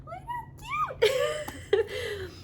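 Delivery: high gushing squeal with a teary laugh; delighted squeal. Real, not acted. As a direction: squeal it out over something tiny and adorable. Squealing over tiny baby clothes.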